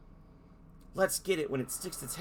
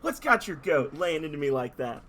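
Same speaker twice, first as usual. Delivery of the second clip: loud, hammed-up Aussie tough guy, second try; Australian accent; 5 dB louder than usual. Dolphin retrying his Australian accent on the heroes. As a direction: push the Australian accent harder. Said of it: "I already can't do it".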